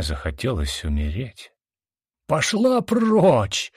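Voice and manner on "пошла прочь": very high, slow shout at full throat; roaring shout. A narrator's reading. Brother roars at his sister before striking her, very high and drawn out. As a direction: bellow it with everything. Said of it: "заорал он во всё горло".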